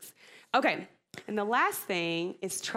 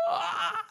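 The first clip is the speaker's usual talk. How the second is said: panicked gasp; 13 semitones higher than usual. Retold or imitated. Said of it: "instead of going".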